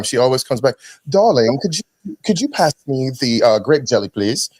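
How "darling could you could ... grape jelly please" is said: put-on affected European accent. Son mocking his mom back from Europe, affected European accent. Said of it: "when she goes back to Italy or goes to Europe".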